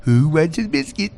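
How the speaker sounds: slow, lightly put-on pet talk; imitated doting Danny. Host imitating Danny offering the dog a biscuit, slow mock coo. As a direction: dangle a treat in a slow coo. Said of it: "when Danny goes".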